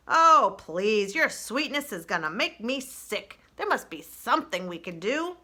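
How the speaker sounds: put-on crusty old groundhog; old groundhog speech. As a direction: preach by the fire like an old-timer. Dig Down character voice.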